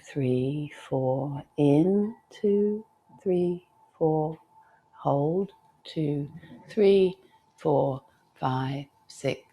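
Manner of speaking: slow, evenly spaced count, softening towards the end; guided breath count. Shown as a demonstration. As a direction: pace a calm breath, one word at a time.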